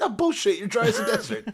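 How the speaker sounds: very high, squeaky comic retort; hammed-up, scoffing outburst; mock disbelief. Retelling a character calling out fake crying, mock outraged. Acted retort in retold argument.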